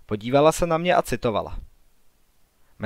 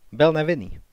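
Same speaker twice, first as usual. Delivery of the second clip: mild cry; 4 semitones higher than usual. A narrator's reading. Girl defending her executed father, mild higher-pitched cry. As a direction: insist on it in a contained outcry. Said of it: "vykřikla".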